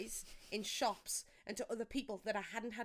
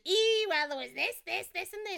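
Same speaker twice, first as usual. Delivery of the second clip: mock eager parents; 8 semitones higher, 8 dB louder than usual. Parents gushing about sister.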